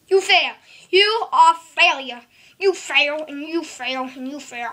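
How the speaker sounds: mock the loser, then trail off. Mocking the wrong guess.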